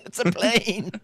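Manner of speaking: high, drawn-out PLANE with a laugh; hammed-up excited cry, slow and high; playful put-on voice. Repeats it in the joking catchphrase voice.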